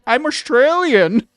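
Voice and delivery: high, loud, slow mocking whine; mocking a wannabe. Streamer mocking the girl without the accent, high slow loud mock. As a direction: drag it out, making fun of her. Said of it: "She's like".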